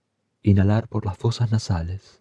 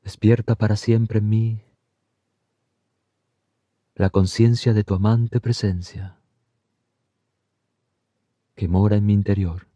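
devotional prayer. Acted. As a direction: pray each phrase so it can be repeated back. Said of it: "Por favor, repita después de mí".

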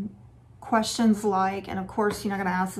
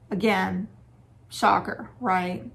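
dry, understated sarcasm; sarcastic; slower than usual. Real, not acted. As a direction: toss it off as mock surprise. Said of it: "There's my sarcasm".

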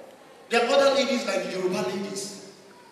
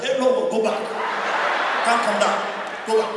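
mock talking to tears; 5 dB louder than usual. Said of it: "She'll be like".

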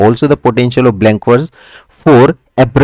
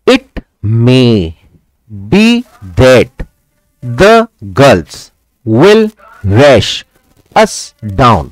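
"It may be that" in slow separate beats, a pause after each word; iamb-by-iamb scansion; much slower than usual. Shown as a demonstration. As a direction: scan it out word by word in five measured pairs. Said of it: "यहां पे one, टू, three, four, five". (हर शब्द अलग करके, धीमी ताल में पंक्ति पढ़ना)

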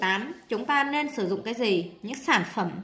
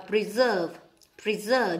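"preserve" stressed on its second syllable; much slower than usual. Shown as a demonstration. Teacher showing word stress to students, second-syllable stress on "preserve". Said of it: "nhấn âm hai".

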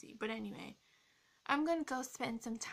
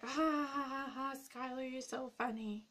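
fake, higher-pitched ha-ha gushing; mock audience laughter; 4 semitones higher than usual. Vlogger imagining viewers praising the joke, mock laughing. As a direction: imitate fans laughing at your joke. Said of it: "everyone's gonna be watching this and be like".

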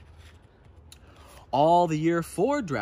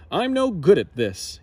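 despairing cry; 4 semitones higher, 7 dB louder than usual. A narrator's reading. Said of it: "he cried".

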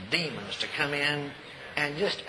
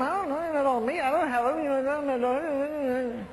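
high protest; 7 semitones higher than usual. Retold or imitated. Retold protest to God.

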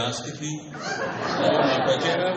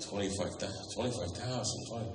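mock sticker shock; 5 semitones lower, 11 dB quieter than usual. Stunned at ring's price.

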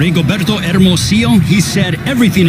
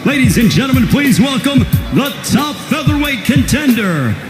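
lucha libre announcer. Acted. Ring announcer introduces fighters.

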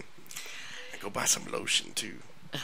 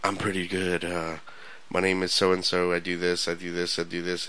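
softer, monotone list of details; mock droning recital, trailing softer; rambling self-introduction; 3 semitones lower, 4 dB quieter than usual. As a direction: imitate someone droning on about himself. Acting out man's rambling text messages.

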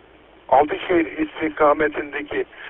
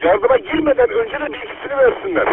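police radio. Real, not acted. Earthquake emergency radio traffic.

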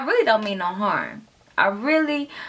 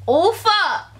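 mock moan; 10 semitones higher than usual. Imitating how the husband reacts, a high mock moan. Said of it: "That's what he be like".

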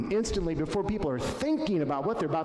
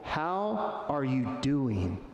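slow caring question; 4 semitones lower, much slower than usual. Shown as a demonstration. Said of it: "We ask people".

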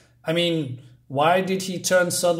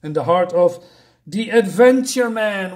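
mock creature command; 5 dB louder than usual. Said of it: "the creature says".

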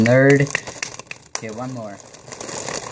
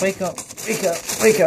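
helium voice; 8 semitones higher, 3 dB quieter, faster than usual. Real, not acted. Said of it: "pop it and talk funny".

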